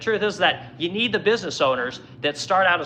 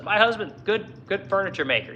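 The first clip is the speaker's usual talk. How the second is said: broken English; 3 semitones higher than usual. Retold or imitated. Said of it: "in broken English".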